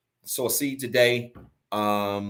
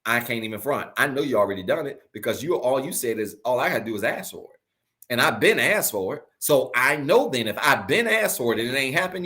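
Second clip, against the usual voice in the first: casual prayer. Pretend. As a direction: talk to God like a friend. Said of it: "that's how I be talking".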